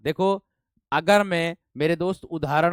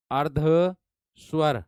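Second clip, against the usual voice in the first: अर्धस्वर drawn out very slowly, syllable by syllable; slowly spelled out; much slower than usual. Shown as a demonstration. Teacher to students, spelling out अर्धस्वर very slowly. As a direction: stretch अर्धस्वर slowly so students catch each sound. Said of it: "teacher repeats the term".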